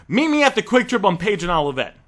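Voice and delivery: firm demanding order. Shown as a demonstration. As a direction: tell him where to meet, in full control. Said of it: "Feel the difference".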